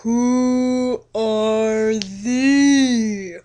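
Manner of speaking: slow, drawn-out mock-archaic vampire suitor; hammed-up old-world charmer, dragging every word; Edward's courtly voice. Edward's voice again.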